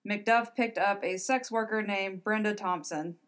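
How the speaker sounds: hoarse, strained voice going; hoarse throat, voice giving out; losing voice. Real, not acted. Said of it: "I'm losing my voice".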